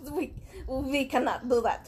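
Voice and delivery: stiff mock German; hint of German doctor; bad German accent. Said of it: "we're gonna have bad German accents".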